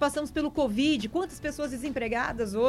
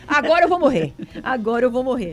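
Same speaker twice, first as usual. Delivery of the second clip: desespero; 9 dB louder than usual. Retold or imitated. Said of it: "Eu falei".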